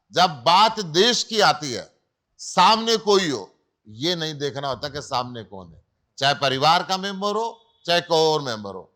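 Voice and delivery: rallying the audience for the nation; political speech. Real, not acted. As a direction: drive each phrase home loudly, with weighty pauses. Candidate turns to stump oratory.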